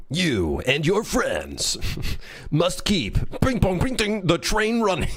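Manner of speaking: high, slow, through giggles; giggly trailer voice. Pretend. Dev retrying his game pitch, high and giggling. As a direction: try to stay dramatic but keep cracking up.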